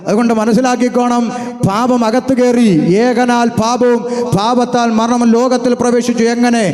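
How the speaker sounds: emphatic, slow-built pulpit oratory; fervent preaching. Real, not acted. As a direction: declaim it with stretched key words. Preacher declaims doctrine.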